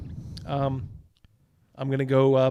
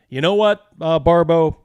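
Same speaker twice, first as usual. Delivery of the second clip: firm telling-off; 2 semitones higher, 6 dB louder than usual. Acted. Husband firing the rude cook, loud scolding. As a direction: put him in his place, loud.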